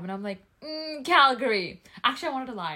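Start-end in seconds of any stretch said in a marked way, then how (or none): 0.6-1.8 reluctant answer. Retold or imitated. Reluctant answer to nosy stranger.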